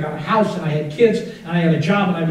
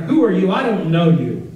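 raised, indignant challenge; angry denial; 2 semitones higher, 4 dB louder than usual. Acted. Son disowning his mother at the door, indignant.

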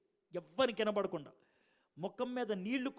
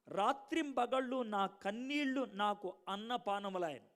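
slow, weighty reading of the verse; slow scripture reading. Shown as a demonstration. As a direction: let each word of రాత్రింబగళ్ళు land slowly. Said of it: "ఆ line మళ్ళీ చదువుతాను వినండి". (నెమ్మదిగా, బరువుగా వచనం చదవడం)

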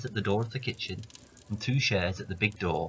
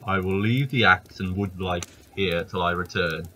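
giant voice. Acted. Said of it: "says he".

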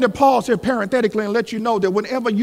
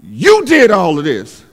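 upset Sarah; slower than usual. Acted. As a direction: accuse him as the wronged wife. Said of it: "Sarah gets upset and says".

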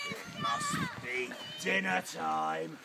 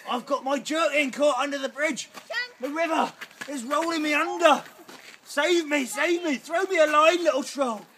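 high, louder damsel crying for help; 8 semitones higher, 7 dB louder than usual. Acted. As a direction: beg to be saved like a damsel. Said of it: "Put on my damsel voice".

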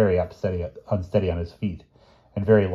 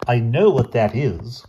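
terrified croak; 4 semitones higher, 5 dB louder, slower than usual. Acted. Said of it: "croaked Doctor Coote in a terrified voice".

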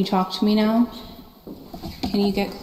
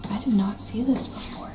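whispering; 6 dB quieter than usual. Real, not acted. Spotting something in haunted building.

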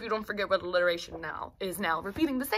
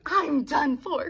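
slow, loud cry of despair; Duke crying out; 5 semitones higher, 5 dB louder, slower than usual. Acted. Duke cries out, done for, as the beast drags him off. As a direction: wail it like a doomed duke. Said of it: "cried the Duke".

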